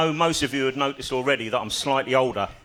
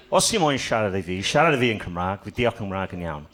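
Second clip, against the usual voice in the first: confident burst of Welsh; speaking Welsh; 3 semitones lower than usual. Acted. Cornered comedian answers the bloke, speaking Welsh. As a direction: deliver Welsh phrases boldly, phrase by phrase. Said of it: "I'll go again".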